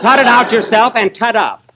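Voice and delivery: mock baby talk back. Mimics Phil's baby talk back.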